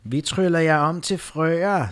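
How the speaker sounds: witch voice. Acted. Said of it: "sagde farlige".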